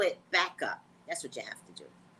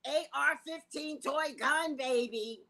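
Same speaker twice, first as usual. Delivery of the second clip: doting parent; 5 semitones higher, slower than usual. Retold or imitated. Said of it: "they're like".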